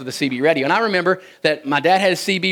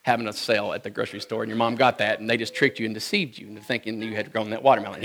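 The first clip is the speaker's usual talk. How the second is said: grandmother's confession; 6 semitones lower, 7 dB quieter than usual. Retold or imitated. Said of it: "she said".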